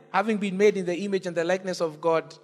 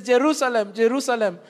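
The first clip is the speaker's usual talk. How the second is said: intense affection; 2 semitones higher, 3 dB louder than usual. Shown as a demonstration. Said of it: "there is intense affection".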